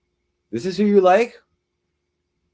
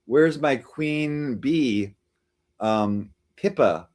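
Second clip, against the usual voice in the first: mock lovesick Gotham; much slower than usual. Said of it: "he started saying".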